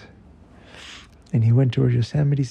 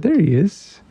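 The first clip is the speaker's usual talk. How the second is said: Tail; 8 semitones higher, 4 dB louder than usual. Acted. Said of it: "And Tail said".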